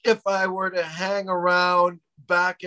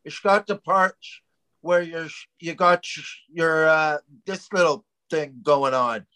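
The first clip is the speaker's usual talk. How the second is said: slushy sh-filled mock Dutch; Dutch accent attempt. Comic trying to recall it, badly faked Dutch accent. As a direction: fumble for Dutch with sh sounds. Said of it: "how does the Dutch accent go".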